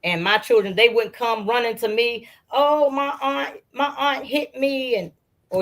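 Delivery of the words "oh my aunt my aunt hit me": put-on higher, slow whiny kid voice; tattling child. Mother imitating a child complaining that an aunt hit him, slow and whiny. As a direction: lightly act a child running to tell on an aunt.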